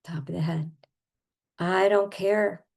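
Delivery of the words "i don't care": slow, emphatic mock defiance; acted stubborn indignation; pretend anger. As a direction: throw it out defiantly, stretched. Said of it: "especially with the anger".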